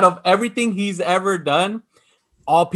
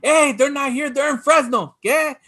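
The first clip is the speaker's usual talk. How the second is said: cholo voice; 6 semitones higher than usual. Retold or imitated. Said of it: "He's like".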